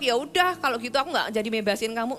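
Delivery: mock sulking. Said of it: "Tuhan nggak ngambek".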